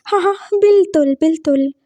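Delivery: बिल्कुल lisped with t for k, "biltul"; eager lisped agreement; lisping. Acted. Lisping boy agrees to the double wedding, lisped. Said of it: "तोतले को तोतला नहीं बोलेंगे".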